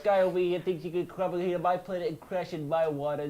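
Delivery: loud mock-outraged dock worker; hammed-up territorial grumbling; indignant local. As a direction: put on a griping local, loudly offended.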